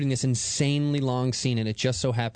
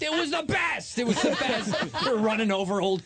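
laughing; 10 semitones higher than usual. Real, not acted. Laughs recalling wild cab ride.

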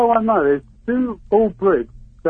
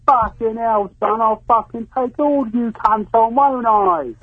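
mock London gangster bluster, higher than usual; cocky Guy Ritchie hardman; 5 semitones higher than usual. British caller imitating the host bragging about a fight, cocky gangster. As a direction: swagger like a cocky British film villain. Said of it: "got really cocky with, like, proper, uh, Guy Ritchie".

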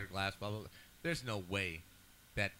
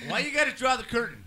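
laughing through the words; 12 semitones higher than usual. Real, not acted. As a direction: say it while cracking up. Laughing after a joke.

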